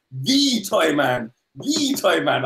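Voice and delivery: drawn-out grand self-announcement; slow dramatic villain. Retold or imitated. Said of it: "and he's like".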